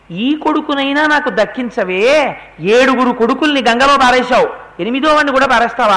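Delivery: pleading father. Retold or imitated. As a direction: beg her to spare this last son.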